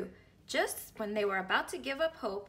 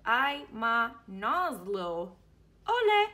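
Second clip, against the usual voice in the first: playful gibberish cheer; backwards talk; 9 dB louder, slower than usual. Acted.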